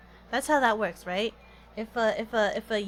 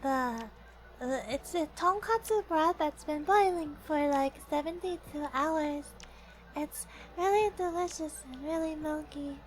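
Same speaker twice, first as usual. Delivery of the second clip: lightly higher cutesy ramen host; high-pitched host voice; 6 semitones higher than usual. Pretend. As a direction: chirp it like a perky host. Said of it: "high-pitched host voice".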